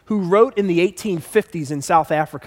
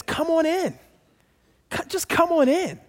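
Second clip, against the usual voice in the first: higher, soft welcoming call; inviting come on in; 7 semitones higher, 5 dB quieter than usual. Retold or imitated. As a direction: beckon someone in gently. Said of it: "a word that means".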